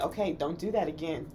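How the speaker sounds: low, soft warning; restrained caution before blowing up; controlled warning. Retold or imitated. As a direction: warn quietly, holding temper back. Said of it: "It's like, I'm saying".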